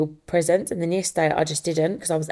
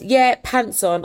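put-on toddler voice; 5 semitones higher, 3 dB louder, much slower than usual. Toddler son insisting on pants.

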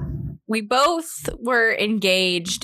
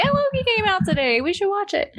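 excited; 11 semitones higher than usual. Retold or imitated. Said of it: "So I was the one that".

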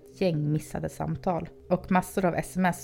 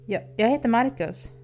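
higher, stammering nervous introduction; 6 semitones higher, 3 dB louder than usual. A narrator's reading. Babysitter nervously introduces himself to the creepy teen, stammering. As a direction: stumble over the first word, scared. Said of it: "stammade jag fram".

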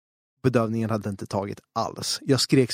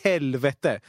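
exasperated; much slower than usual. Retold or imitated.

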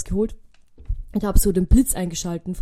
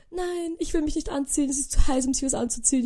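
higher, mock-whiny refusal; whiny sister; 6 semitones higher than usual. Sister refusing the night walk, too hot, mock whiny. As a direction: whine like a sister who won't budge.

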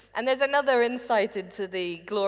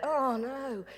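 mock teenage groan, a bit higher; playing a sulky teen to the director; sulky teenage boy; 5 semitones higher, 3 dB quieter than usual. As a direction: whine it like a bored teenager. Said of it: "I went very kind of teenage boy".

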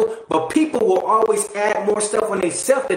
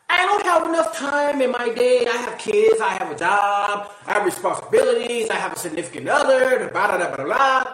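whiny run of excuses, lightly voiced; a hint of someone complaining they're too busy; mock excuse-maker. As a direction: rattle off excuses half-mocking. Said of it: "I'm gonna say this statement".

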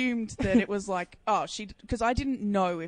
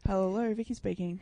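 apathetic phone voice; 6 dB quieter than usual. Shown as a demonstration. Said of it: "Give us a taste of the phone voice".

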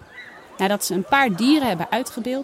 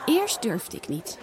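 honest; 6 dB quieter, slower than usual. Acted. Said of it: "zegt Janna eerlijk".

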